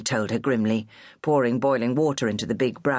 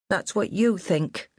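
grimly; 7 semitones higher, slower than usual. A narrator's reading. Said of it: "Minnie said grimly".

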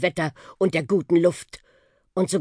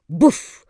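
landing thump; 7 dB louder than usual. Acted. Bus bumps down on landing.

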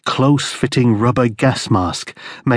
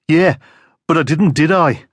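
smug, taunting question; cocky; 6 semitones higher than usual. Acted. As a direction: rub it in smugly. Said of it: "the cockiness".

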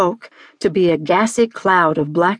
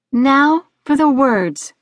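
higher, slow cue to the choir; girl conductor; 5 semitones higher, slower than usual. Acted. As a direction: announce it slowly in a higher voice. Girl conducting her sheep choir.

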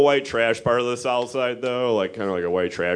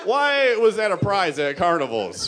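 incredulous rant; 8 semitones higher than usual. Acted. Comic rants about Coke mirrors.

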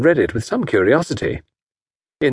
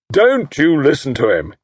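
interrupting; 4 semitones higher than usual. Acted. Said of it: "interrupted Estcourt".

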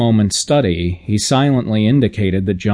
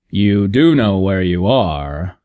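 urging; slower than usual. Acted. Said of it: "urged Mister Henderson".

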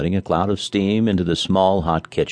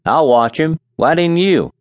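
Charlie's voice; 8 semitones higher, 4 dB louder than usual. A narrator's reading.

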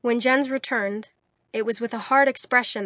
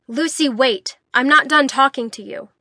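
calling out; 4 semitones higher, 8 dB louder than usual. A narrator's reading. Jens calls after her.

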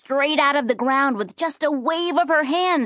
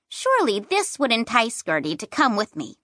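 ordinary delivery

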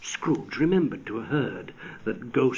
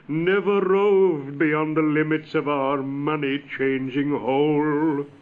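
a lightly raised, lamenting ghost voice; mournful ghost; 3 semitones higher, 3 dB louder than usual. Acted. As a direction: grieve aloud as a doomed spirit. Marley's ghost speech.

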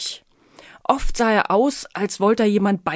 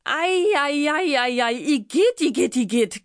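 high, squealing frightened spider voice; frightened shriek; 6 semitones higher than usual. Acted. Startled spider shrieking at the Miesepups. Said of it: "kreischte die Spinne erschrocken".

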